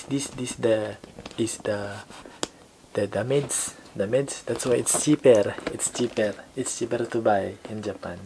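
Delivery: put-on heavily accented, halting broken English; mock accented salesman, halting and repetitive. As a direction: stumble and repeat words in a mock foreign accent. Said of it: "want me to speak like this".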